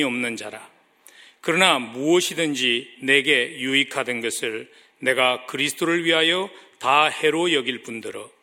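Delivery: measured, projected Bible reading; formal public reading of scripture. Acted. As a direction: read the verses out firmly to a congregation. Reads scripture aloud to congregation.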